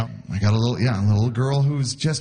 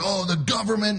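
mock concerned people; 7 semitones higher than usual. Worried people, mocked.

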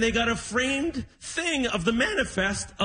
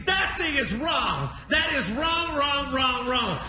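drawn-out, higher-pitched insistence; indignant protest; 4 semitones higher, slower than usual. Retold or imitated. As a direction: protest slowly, leaning on every word. Dad disputes his step count.

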